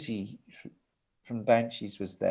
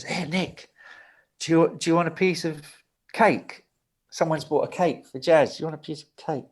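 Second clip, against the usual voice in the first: lightly voiced prankster, higher pitch; a touch of higher-pitched mischief; imitated prankster offer; 5 semitones higher than usual. Prankster guitarist offering cake in story.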